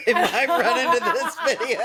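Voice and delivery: high laughing line. Real, not acted. Host laughing that the bosses may see the video. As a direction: giggle through it. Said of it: "host laughing".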